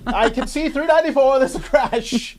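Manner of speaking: high, punchy vintage newsreel announcer; old-timey newsy voice. Retold or imitated. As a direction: announce it like a 1950s news reporter. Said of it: "old-timey newsy voice".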